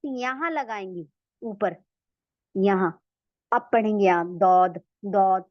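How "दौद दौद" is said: दौद with a heavy, thick dal sound; दौद said like a fat दाल; wrong daud. Shown as a demonstration. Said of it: "तो गलत है". (दौद को दाल का मोटा बना के)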